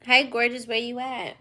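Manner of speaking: loud flirty hello; flirty greeting. Pretend. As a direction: call out sweetly to a crush. Answering a flirty call.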